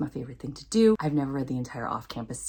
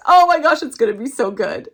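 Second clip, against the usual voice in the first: bursts out high and loud on oh, then settles; giddy fangirl gush; 7 semitones higher, 7 dB louder than usual. Real, not acted. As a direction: squeal with real delight over the book. Gushing about an awaited book.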